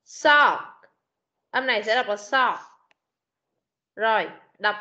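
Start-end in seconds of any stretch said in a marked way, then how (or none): 0.1-2.6 "Sock" short and clipped, a single syllable; sound demo sock. Shown as a demonstration. Teacher breaking the word apart for the pupil, demo. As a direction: isolate the first syllable. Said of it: "cô đánh lên nha".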